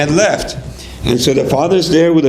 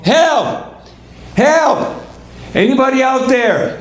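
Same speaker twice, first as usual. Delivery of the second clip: acted screaming for help; 8 semitones higher, slower than usual. Trapped family calls for anybody to hear, high mock screaming. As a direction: call up out of a hole in a high, strained voice. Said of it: "decide to just start screaming and shouting".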